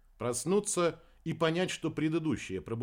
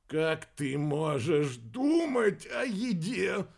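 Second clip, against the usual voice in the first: high, slow, anguished wail; moaning; 4 semitones higher, much slower than usual. A narrator's reading. Nauseated Ricky before fleeing to the bathroom, moaning. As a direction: wail it out queasily, stretching words. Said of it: "простонал Рики".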